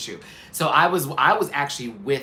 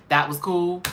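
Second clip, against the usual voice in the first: pitched up, rising in disbelief; incredulous question; 6 semitones higher, 3 dB louder than usual. Real, not acted. Host doubting the judges' verdict, incredulous rising question. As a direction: ask it like you can't believe it.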